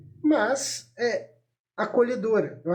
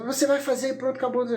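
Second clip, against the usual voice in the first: higher-pitched mock bossy order; lightly acted, no-argument command; tyrannical; 5 semitones higher, faster than usual. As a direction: imitate a parent laying down the law. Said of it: "É uma relação que vem da tirania".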